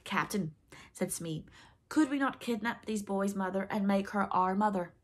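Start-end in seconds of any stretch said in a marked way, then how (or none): 0.0-0.5 eager. Acted. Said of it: "Smee's eager voice". 1.9-4.9 eager. Acted. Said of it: "Smee's eager voice".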